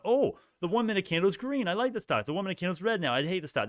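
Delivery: high, singsong mock of a fickle trader; mocking flip-flopper. Streamer mocking a flip-flopping trader to his chat, high singsong mockery. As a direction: parody the trader who flips with every candle.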